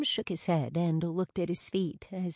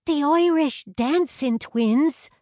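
high, loud, drawn-out thrill; excited Brianna; 9 semitones higher, 8 dB louder than usual. A narrator's reading. Brianna announcing the dancing twins to Tara, excited.

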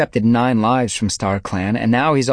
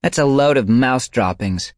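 higher, louder scoff; young she-cat scoffing; scornful; 8 semitones higher, 6 dB louder than usual. A narrator's reading. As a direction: dismiss it with contempt. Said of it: "Needletail meowed".

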